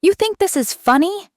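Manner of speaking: high, loud, biting challenge; frustrated snap. Acted. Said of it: "she snapped, her words sharp and biting".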